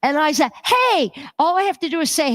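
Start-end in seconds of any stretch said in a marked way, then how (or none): 0.6-1.1 high, bouncy mock hello; retold called greeting. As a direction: call out an imitated cheery hey.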